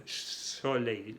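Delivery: "soleil" opening on a long hissed S; clear initial S. Shown as a demonstration. Teacher showing Spanish speakers the S, drawn-out S in "soleil". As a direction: hold the first S of "soleil". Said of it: "pronuncian como en español".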